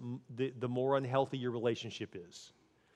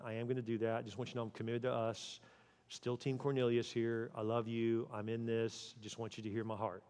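soft and gentle, getting softer as it goes; tender repair talk; 3 semitones lower, 4 dB quieter than usual. Pretend. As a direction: speak softly to your spouse to make peace.

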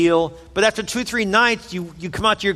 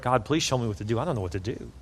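murmured prayer, much softer and lower; prayer under breath; 6 semitones lower, 8 dB quieter, faster than usual. Retold or imitated. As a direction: pray it barely aloud, to yourself. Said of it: "I just prayed under my breath".

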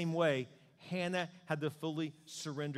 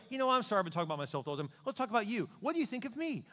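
self-absorbed friend; 6 semitones higher, much faster than usual. Retold or imitated.

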